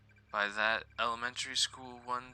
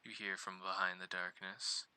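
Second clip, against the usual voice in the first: creepy storyteller voice. Acted. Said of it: "Get the creepy voice in".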